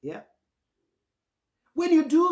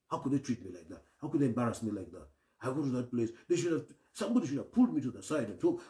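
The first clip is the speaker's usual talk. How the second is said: softer, lower self-pitying grumble; mumbling negativity; 6 semitones lower, 5 dB quieter, faster than usual. Retold or imitated. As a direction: grumble the hurt to yourself. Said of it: "You're mumbling negativity".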